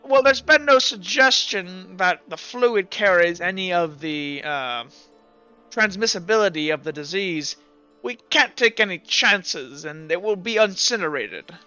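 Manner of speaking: lightly voiced doctor explaining a precaution; officious, hedging in-character explanation; cautious plague doctor. Doctor explaining disease risk to adventurers, mildly officious.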